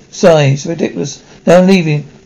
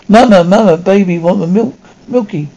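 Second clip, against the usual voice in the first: put-on a lightly raised baby voice begging; high-pitched voice; 2 semitones higher than usual. Baby begging mama for milk, lightly high-pitched. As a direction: whine it up a little, like a toddler. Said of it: "high-pitched voice".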